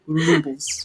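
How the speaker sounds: rubles in a lightly Russian accent; mock Russian accent. Shown as a demonstration. Friend coaches player on accents, mock Russian. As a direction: lean into a slow Russian rubles. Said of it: "Russian is, like, slower and lower".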